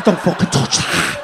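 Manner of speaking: dibuat lebih rendah seperti makhluk berbisa; venomous Scouser. Retold or imitated. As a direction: desis ancaman ala makhluk berbisa. Scouser threatening tourist.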